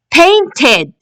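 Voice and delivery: teacher's model "Painted", final ed clearly sounded; ed as a syllable. Shown as a demonstration. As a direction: say "Painted" in two careful syllables, last one ed. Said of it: "It's the ed sound".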